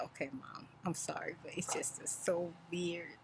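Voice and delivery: hushed, half-whispered apology from the daughter; sheepish whisper. Retold or imitated. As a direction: imitate the daughter mumbling sorry under her breath.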